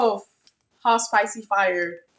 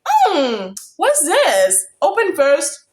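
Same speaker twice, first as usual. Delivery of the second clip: excited high voice reading emails; high, eager retelling of reading the email; 9 semitones higher, 5 dB louder, slower than usual. Retold or imitated. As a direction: act out opening the news, eager. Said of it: "I was like".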